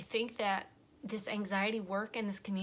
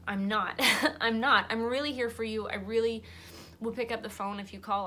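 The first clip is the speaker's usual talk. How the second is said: emphatic insistence; 6 dB louder than usual. Real, not acted. Insisting she truly means it.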